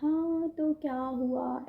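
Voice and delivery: slow, easygoing shrug of a reply; casual unbothered. Retold or imitated. Imitating her elder sister calmly shrugging off the crowded metro. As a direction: imitate the sister brushing it off, slowly. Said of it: "इसने आराम से बोला".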